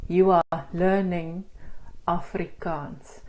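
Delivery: slow, each syllable separated. Shown as a demonstration. Teacher showing learners the syllables in speech, slowly syllable by syllable. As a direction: say it beat by beat, slowly dividing every word. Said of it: "we speak in syllables".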